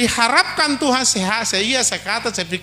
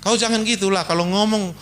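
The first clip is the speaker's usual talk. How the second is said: wife's gentle complaint. Acted. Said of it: "Dia bilang".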